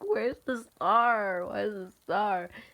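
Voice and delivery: put-on crying, words broken up by sobs. Retelling looking at the starless sky after a death: retelling own crying. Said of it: "That's when I was starting to cry".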